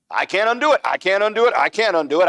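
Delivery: high, loud mocking whine. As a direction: parody a helpless excuse. Mocking politicians dodging blame.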